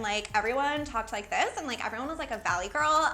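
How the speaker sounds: light imitation of Valley girl talk; Valley girl accent. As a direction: put on a hint of Valley girl. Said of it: "I just picked up a Valley girl accent".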